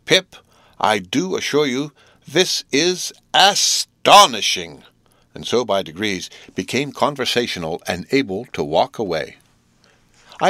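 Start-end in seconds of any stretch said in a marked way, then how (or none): 0.1-4.8 higher, slow, emphatic amazement; prolonged astonishment. A narrator's reading. Joe assuring Pip, drawn-out astonishment. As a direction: stretch "astonishing" right out, raised and loud. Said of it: "he prolonged his remark".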